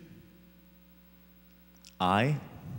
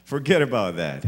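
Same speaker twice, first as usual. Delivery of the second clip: voice of God; 4 semitones higher, 5 dB louder than usual. Acted. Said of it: "God says".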